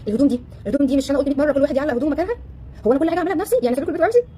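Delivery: a mother nagging about dishes and clothes; mock nagging. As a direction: scold the family over the mess. Acted nagging at household.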